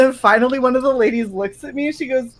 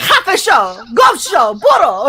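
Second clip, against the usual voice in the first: louder mock shout of curses; mock yelling back; 3 semitones higher, 3 dB louder, slower than usual. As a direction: bark the insults back at them. Her swearing back at them.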